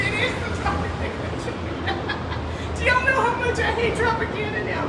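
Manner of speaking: high, squealing laughter through the words; helpless, high-pitched amused exasperation; laughing in disbelief. Real, not acted. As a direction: crack up while complaining. Laughing over the train.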